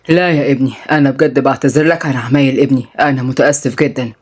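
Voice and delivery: mildly contrite father; apologetic. Acted. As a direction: soften and drop the voice to apologize. Father apologizes for his son.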